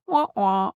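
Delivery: playful "wah-wah" failure noise; mock sad trombone. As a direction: imitate a losing-game horn. Mock failure sound after bad news.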